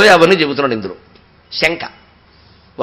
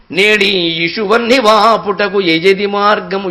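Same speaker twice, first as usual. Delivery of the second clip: slow verse recitation; much slower than usual. Acted. Preacher reciting the unborn child's plea, slow chant. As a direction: draw out each word of the poem, very slow.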